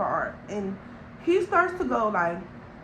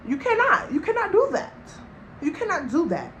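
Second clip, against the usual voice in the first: much higher, laughing, insisting; laughing emphasis; 6 semitones higher than usual. Real, not acted.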